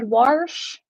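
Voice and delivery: "Warsh" with an R put into it; imitated country "Warsh", R before the sh; backwoods pronunciation. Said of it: "why she said".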